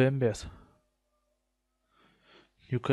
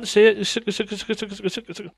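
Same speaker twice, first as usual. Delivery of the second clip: excited; 7 semitones higher, 7 dB louder, slower than usual. Real, not acted. Excitedly chanting light repeatedly.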